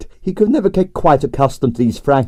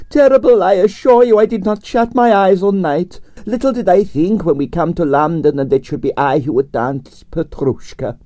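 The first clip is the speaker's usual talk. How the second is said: theatrical dancer; 8 semitones higher than usual. A narrator's reading. Dancer lamenting sleeplessness to Arienskaya, high and theatrical. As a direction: overplay the grief. Pavel voiced in story.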